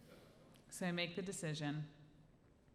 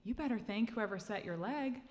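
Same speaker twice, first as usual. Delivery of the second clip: higher, lightly voiced doctor, impressed; doctor's voice; 8 semitones higher, 7 dB louder than usual. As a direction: lightly mimic a praising doctor. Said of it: "the doctor told her".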